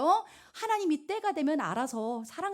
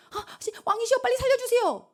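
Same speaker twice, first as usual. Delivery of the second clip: much higher, rushed and desperate; panicky plea; 12 semitones higher, 3 dB louder than usual. Retold or imitated. Imagined Esther begging the king, mock panic, much higher. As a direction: squeal for help in a panic. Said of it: "우리 생각은 이럴 것 같잖아".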